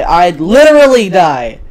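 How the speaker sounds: put-on loud, slow teen drama; mortified exaggeration. Daughter to dad about talking to her, mortified dramatic cry. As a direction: drag it out in hammed-up embarrassment.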